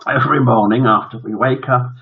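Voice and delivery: slightly lifted, firmer character voice; corrected boy's voice. Acted. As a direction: lightly voice it as the young son. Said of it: "wrong voice".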